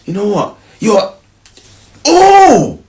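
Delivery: put-on high, indignant girlfriend voice; high outraged girlfriend. Girlfriend snapping back at her boyfriend, high and outraged. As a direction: play the offended girlfriend squealing. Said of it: "now it gets to".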